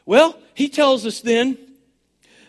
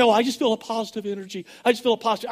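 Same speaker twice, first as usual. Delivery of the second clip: mocking goofy believers; 5 dB quieter, much faster than usual. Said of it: "some of these people out there are all goofy say".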